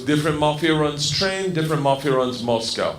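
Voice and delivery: put-on Russian gangster accent; Igor. Gangster explaining mafia territory to a student, Russian accent. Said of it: "He goes".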